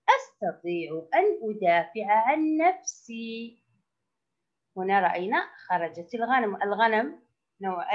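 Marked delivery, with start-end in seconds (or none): 0.1-3.6 model reading. Shown as a demonstration. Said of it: "ألاحظ الصور وأقرأ".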